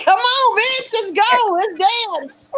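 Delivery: playfully imitated call to fight; mock taunt. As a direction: egg them on in a retold taunt. Retold taunting challenge to fight.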